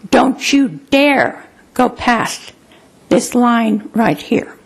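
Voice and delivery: slow, measured parental warning; retold stern warning. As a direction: lay down the rule slowly, with pauses. Father's warning voiced in a story.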